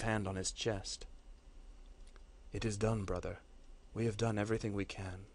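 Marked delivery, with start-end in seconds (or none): 2.5-5.3 softly, in defeat. Acted. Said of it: "said Gornor softly, defeat ringing heavy in his voice".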